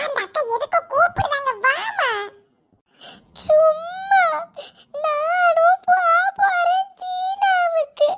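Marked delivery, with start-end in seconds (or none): 3.4-8.1 crying. Acted. Grandma wails, left off trip.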